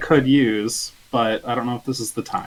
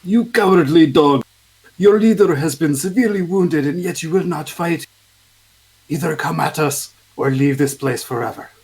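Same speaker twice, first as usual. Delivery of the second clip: booming battle taunt, high and loud; magically amplified voice; 4 semitones higher, 4 dB louder than usual. Acted. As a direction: shout the challenge across the battlefield. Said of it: "And I will shout at them".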